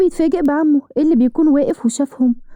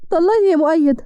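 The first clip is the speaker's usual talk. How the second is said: demanding divorce; 3 semitones higher than usual. Acted. Wife demanding divorce from husband, insistent and heated. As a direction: throw طلقني at him, fed up.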